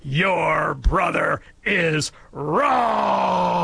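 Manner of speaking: haughty, stretched rebuke from the front of the class; imperious teacher. Retold or imitated. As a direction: stretch out every word like an outraged schoolteacher. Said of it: "said in an imperious tone".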